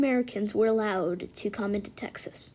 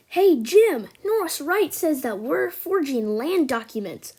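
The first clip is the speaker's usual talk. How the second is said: calling out; 4 semitones higher, 4 dB louder than usual. Acted. Brother reports insult to Jim.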